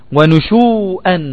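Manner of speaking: "ونشوءا" slow, ending in -an; accusative tanween. Shown as a demonstration. Teacher gives a second example, "ونشوءا" slowly ending -an. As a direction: stretch the oo in "ونشوءا", then add -an. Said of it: "عند النصب".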